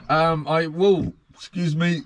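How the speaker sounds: normal talking voice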